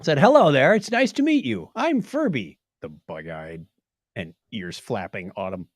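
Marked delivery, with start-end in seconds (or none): 0.2-2.6 lightly voiced childlike toy, pitched higher; a hint of a creepy child greeting; creepy child's voice. Host reading out the Furby's greeting, lightly childlike. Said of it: "said in a creepy child's voice".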